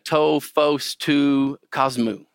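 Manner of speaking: very slow "To phos tu cosmu" with a Koine Greek twang. Shown as a demonstration. Teacher voicing John's Greek phrase, Koine twang. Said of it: "a little twang there in that Koine".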